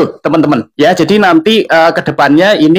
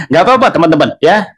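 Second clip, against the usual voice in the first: laughing it off; 3 semitones higher than usual. Real, not acted. Laughs off fast-talk complaint.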